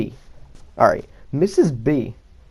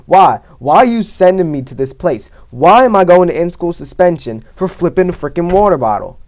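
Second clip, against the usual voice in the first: exasperated pleading; 5 dB louder than usual. Retold or imitated. Pestering the guard for minutes.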